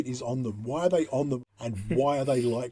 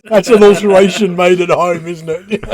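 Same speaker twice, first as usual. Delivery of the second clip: much louder, laughing tease; loud teasing; 3 semitones higher, 15 dB louder than usual. Real, not acted. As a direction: needle him loudly.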